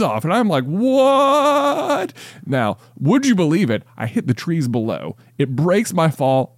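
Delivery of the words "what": high squeaky startled what; surprised yelp. Acted. Man knocked off balcony yelps in high surprise. Guy surprised as arms thrown off.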